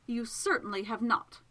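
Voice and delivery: understated, cutting scorn; very scornful. Acted. Miss Absalom rebuffs the intruder in her bedroom, scornful. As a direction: put him down with disdain. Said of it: "very scornfully".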